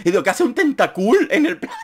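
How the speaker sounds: cracking up and apologising; laughing. Real, not acted. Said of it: "Lo siento, pero me hizo mucha gracia".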